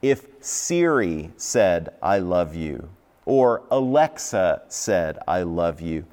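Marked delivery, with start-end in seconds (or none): 2.0-2.9 a hint of a flat Siri voice; lightly voiced, lower, machine-like; robotic voice. Preacher imitates Siri saying it, mildly robotic. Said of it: "almost like she was a robot". 5.3-6.1 a hint of a flat Siri voice; lightly voiced, lower, machine-like; robotic voice. Preacher imitates Siri saying it, mildly robotic. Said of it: "almost like she was a robot".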